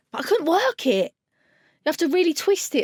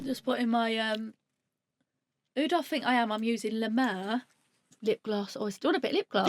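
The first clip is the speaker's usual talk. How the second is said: quiet; 2 semitones lower, 9 dB quieter than usual. Real, not acted. Quiet lip gloss aside.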